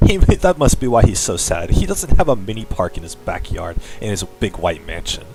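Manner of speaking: mock-earnest story reading; story narration. Streamer reading fan fiction to viewers, dramatic narration. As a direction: read a cheesy fan story aloud.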